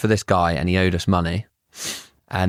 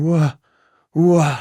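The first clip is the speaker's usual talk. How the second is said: imitating the old man's cry; 8 semitones higher, 5 dB louder than usual. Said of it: "like that".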